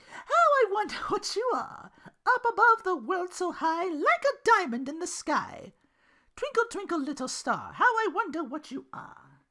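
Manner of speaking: high, loud, slow spiteful sing-song; pernicious recital. Acted. Belle reciting the rhyme to Duke with a pernicious tone, high and slow. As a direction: recite it like a threat. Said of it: "with her voice raised slightly ... pernicious tone".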